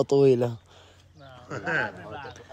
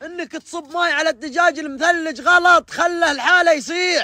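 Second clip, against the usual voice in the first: much higher mock-scolding voice; high teasing voice; 9 semitones higher than usual. Friend teasing Abu Muath in a high voice. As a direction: chide in a high, playful voice.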